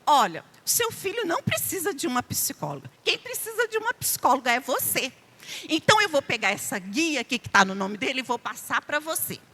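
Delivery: lightly voicing a cold psychologist's verdict; quoting the psychologist. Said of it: "ela virou e falou assim".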